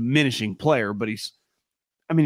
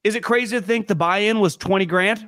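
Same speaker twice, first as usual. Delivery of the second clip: sarcastic; 5 semitones higher than usual. Real, not acted. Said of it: "We're being sarcastic".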